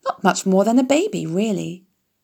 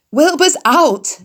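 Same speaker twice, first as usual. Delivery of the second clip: excited animals; 8 semitones higher, 6 dB louder, slower than usual. A narrator's reading. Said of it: "they said".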